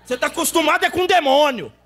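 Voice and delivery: exortação que cresce até o brado agudo; pregação inflamada. Retold or imitated. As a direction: pregue com força, subindo até gritar. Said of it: "Eu falei desse jeito pra ele". (pregação fervorosa em crescendo)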